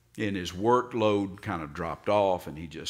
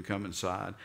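pleading. Retold or imitated. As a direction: coax the son to come in. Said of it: "he pleaded with him".

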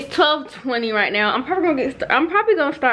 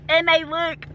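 laughing and crying; 5 semitones higher, slower than usual. Real, not acted. Braces just came off.

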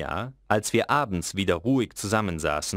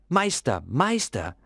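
father begging for his son's eyes; pleading call; 10 semitones higher than usual. A narrator's reading. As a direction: beg the master to spare the boy.

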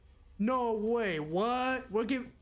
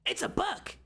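higher-pitched cry of discovery; surprised; 7 semitones higher than usual. Real, not acted. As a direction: blurt it out, amazed. Discovers the Chronorium is a book.

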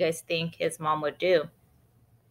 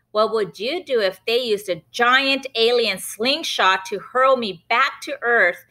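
Benny's voice; 5 semitones higher than usual. Acted. Boy Benny testing his mom, cheeky and high. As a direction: push her with a teasing question.

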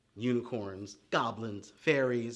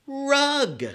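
much higher, louder delighted word; excited answer; 10 semitones higher, 10 dB louder than usual. Acted. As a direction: pop the word out with glee. Child lesson word discovery.

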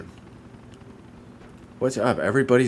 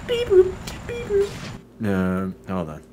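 very high beeping toy robot; chirpy high robot beeps; 5 dB quieter than usual. Acted. Imitating toy robot noises.

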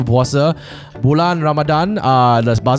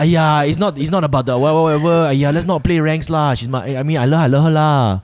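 put-on Malaysian accent; 2 semitones higher than usual. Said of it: "Game of Thrones in a Malaysian accent".

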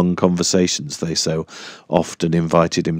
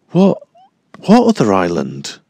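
startled question; 3 semitones higher than usual. Acted. Dyke startled by news.

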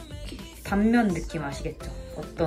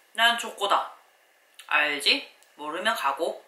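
cool confident chocolate; slower than usual. Pretend. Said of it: "자기 주장을 딱히 강하게 하지 않는".

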